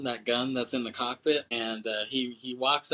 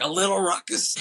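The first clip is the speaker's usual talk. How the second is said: higher, louder disbelieving echo; incredulous repeat; 7 semitones higher, 4 dB louder than usual. Retold or imitated. The speaker echoing the tech's excuse, higher and louder in disbelief. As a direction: throw her words back in disbelief.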